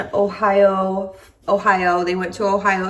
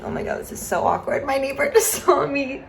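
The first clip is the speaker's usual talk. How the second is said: embarrassed; 5 semitones higher, faster than usual. Real, not acted. Neighbor sees her filming.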